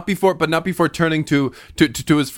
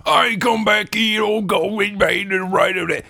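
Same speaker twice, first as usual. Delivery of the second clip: pursuing big guard; 6 semitones higher than usual. Acted. Big guard chasing the three, bellowing.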